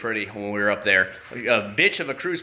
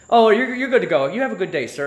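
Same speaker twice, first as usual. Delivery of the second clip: higher, louder breezy cop voice; mock friendly trooper; 8 semitones higher, 5 dB louder than usual. Trooper sending the driver off in a hammed-up cheery voice. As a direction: send him off all cheery.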